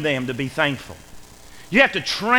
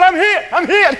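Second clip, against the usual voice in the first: very high, loud repeated cry; mock panic; 13 semitones higher, 7 dB louder than usual. Coworker in attic thinking a bat bit him, hammed-up panic. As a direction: cry out frantically, imitating panic.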